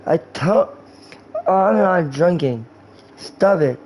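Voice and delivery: slurred mock-drunk protest; drunk guy. Drunk guy denying drinking to his friend, slurred protest. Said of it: "that's talking to a drunk guy".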